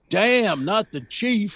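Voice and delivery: mock dismayed henchman; movie henchman. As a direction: whine it like a bad actor.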